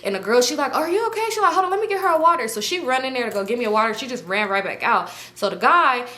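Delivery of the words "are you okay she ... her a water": high-pitched imitated concern. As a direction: mimic a girl fussing over her friend. Girl checks on vomiting narrator.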